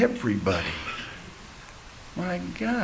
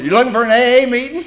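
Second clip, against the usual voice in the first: friendly stranger; 9 semitones higher, 5 dB louder, much faster than usual. Retold or imitated. Guy on porch asks.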